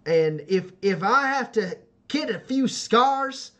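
slow, halting declaration of resolve; determined youth picking each word slowly; earnest young homesteader. Acted. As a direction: steel yourself and state it deliberately. Voices Joe accepting the challenge.

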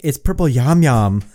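hammed-up Asian accent on "yum yum"; mock Asian accent. Husband teasing wife's pronunciation of yam, mock Asian accent. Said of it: "going full Asian".

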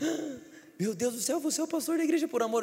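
high-pitched gasp of disbelief; excited mock astonishment, rising high; astonished recognition. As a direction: imitate an amazed fan spotting someone. Uber driver recognising the pastor.

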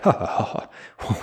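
imitated scoffing "ha ha ha"; put-on, breathy ha-ha laughter; mock dismissive laugh. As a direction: act out laughing someone out of the room. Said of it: "they look, kinda laugh them out".

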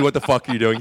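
loud imitated anger; retold outburst, meant seriously; mad, not comedy. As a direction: demand it like an irate director. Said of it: "Mad, not comedy".

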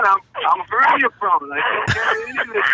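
high plaintive whine on anything; mock whiny excuse. Playing the feeble guest who won't lift. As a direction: whine like a man dodging chores. James whines he can't carry.

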